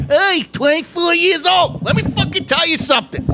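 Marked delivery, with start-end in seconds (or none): 0.1-1.8 mocking quote. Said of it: "and he's gonna fucking say".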